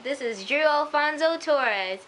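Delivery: lightly imitated show host, slow delivery; TV host introduction. The speaker introducing Drew on the cast, mock announcer. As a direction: draw out the guest's name like a presenter.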